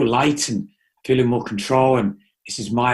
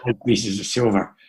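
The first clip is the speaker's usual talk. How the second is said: pirate voice. Pretend. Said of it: "my Johnny Depp impression".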